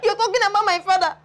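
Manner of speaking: high, fast wailing protest; mock crying wail. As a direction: wail it like a grown man in tears. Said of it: "He's crying".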